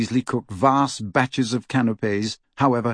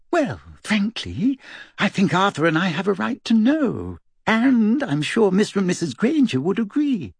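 high, insistent motherly voice; a worried mother pressing for answers; stern mother; 10 semitones higher than usual. Acted. Mrs Weasley's voice, insisting.

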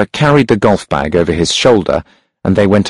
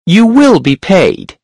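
high, sharp and loud; a sharp, high-pitched hunchback; 11 semitones higher, 3 dB louder, slower than usual. A narrator's reading. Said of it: "The hunchback's voice was sharp and high".

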